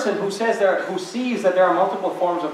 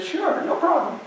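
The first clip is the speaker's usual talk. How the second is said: Mother Teresa's mild reply; 13 semitones higher than usual. Retold or imitated. Mother Teresa agreeing to photographers.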